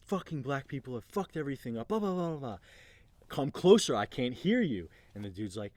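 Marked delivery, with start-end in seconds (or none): 0.0-2.6 higher-pitched imitation of a heckler; mock a ranter, rising into blah-blahs; angry rant. Heckler to leader on stage, imitated angry rant. 3.3-4.9 louder, higher call to step up; unfazed challenge. Retold or imitated. Leader to ranting man, loud unfazed challenge. Larry calls the ranter closer.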